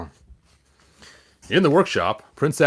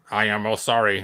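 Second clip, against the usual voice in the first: flat, even robot voice; 2 semitones lower than usual. Acted. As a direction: speak like a polite robot. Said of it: "Gotta do the robot voice".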